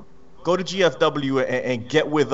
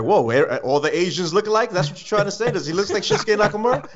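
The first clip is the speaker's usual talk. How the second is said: imagined indignant challenge; 7 semitones higher than usual. Retold or imitated. Critics challenging the sponsor's mix-up, mock incredulity. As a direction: voice climbing into high disbelief. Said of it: "they'll be like".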